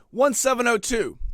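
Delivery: slow, high, insistent code; drawn-out digits for someone who can't hear; exasperated repeating. Retold or imitated. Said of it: "I have to repeat everything".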